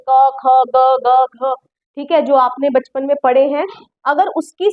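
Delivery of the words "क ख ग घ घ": क, ख, ग, घ each sounded singly with an open vowel; reciting Hindi consonants. Shown as a demonstration. Teacher recalls childhood alphabet for students, क, ख, ग, घ evenly recited. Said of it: "व्यंजन मतलब कॉन्सोनेंट".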